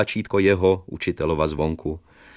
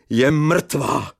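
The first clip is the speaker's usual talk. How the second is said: mock cry; 8 semitones higher than usual. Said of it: "vzkřikl jsem".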